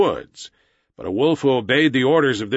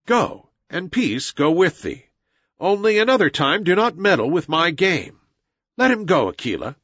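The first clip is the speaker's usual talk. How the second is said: lightly voiced boy in command, pitched higher; lordly boy hero; 5 semitones higher than usual. Mowgli sends the old hunter away, a touch lordly. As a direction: give the order in a higher, measured voice.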